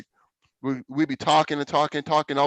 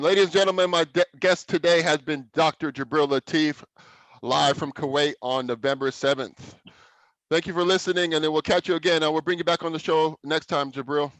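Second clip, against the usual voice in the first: host sign-off; 2 semitones higher than usual. Acted. Host signs off the show.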